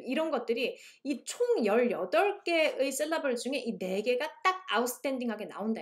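usual speaking voice

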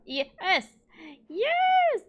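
rising cheer, second one very high and loud; elated cheer. Real, not acted. Player cheering a cow stepping forward, elated. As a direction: burst out cheering, topping the first.

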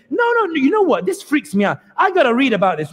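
lightly voiced newcomer deciding to read; a hint of an uneasy seeker, high at the start; curious newcomer. Newcomer in the TikTok skit resolving to read, lightly voiced. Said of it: "And I'll try to imitate it here".

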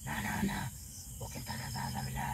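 secretly rally the others under the breath; hushed aside. Real, not acted. Spirit tells companions to get ready to leave, hushed.

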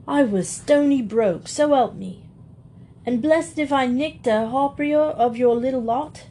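a rough Londoner begging, voice lifted; pleading Cockney burglar. Acted. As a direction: plead your case as a caught thief.

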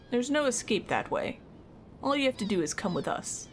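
game soldiers read aloud with mild menace; mildly acted soldier lines; voiced dialogue; lightly voiced soldiers.

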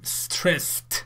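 stressed ending in a crisp t, /strest/; "Stressed" as one syllable ending in t. Shown as a demonstration. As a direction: say "Stressed" with a final t sound, not "id". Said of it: "این ایدی رو ما ت تلفظ کنیم".

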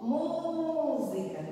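Música with MÚ high and held; stress on first syllable. Shown as a demonstration. Teacher showing the syllable that lasts longest, MÚ drawn out. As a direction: stretch the "Mú" of "Música" slowly. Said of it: "o Mu".

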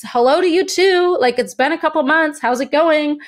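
high, mock-bright hello; sarcastic greeting. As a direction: greet them with pointed sarcasm. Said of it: "And I was like".

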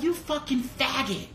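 mock-furious, stretched out high; retold anger. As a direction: imitate someone fuming, without shouting. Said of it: "He was so mad".

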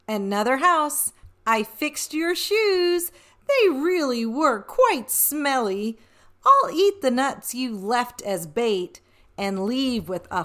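playful rhyming read-aloud; storybook reading. A narrator's reading. Reading the boastful leprechaun to children, lightly playful. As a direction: tease the reader as the cheeky leprechaun.

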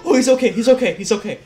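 relieved laughter as the danger passes; breathless relief; laughing relief. Real, not acted. Relief after clone survives.

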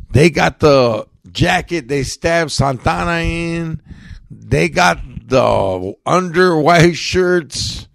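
upbeat podcast sponsor plug; ad read. Acted. Host reads the Gunther's sponsor spot in lively ad voice. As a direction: sell the store to the homies with swagger.

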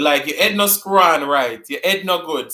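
Jamaican patois, "head" said as "ed". Shown as a demonstration. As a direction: drop the H, patois style. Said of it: "We don't pronounce our H's".

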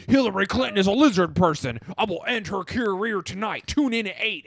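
lightly hammed-up conspiracy broadcaster; mock urgent on-air proclamation; Alex Jones. Host mimics a conspiracy broadcaster promising exposés, mock-bombastic. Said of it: "he's made so many claims where he's like".

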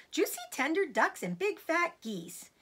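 put-on high, relishing young fox; eager cry. A narrator's reading. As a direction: savour each word like a hungry little fox. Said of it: "cried the small foxes, licking their lips".

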